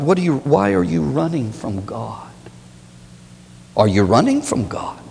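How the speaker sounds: hushed, breathy question; whispered question. Acted. Preacher whispering to the sinner running from God. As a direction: drop to a whisper and ask.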